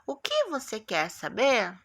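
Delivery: "O que você quer saber" with question tune, "que" prominent; question intonation. Shown as a demonstration. Teacher showing pupils how a question sounds, questioning tune. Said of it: "eu faço a entonação da pergunta".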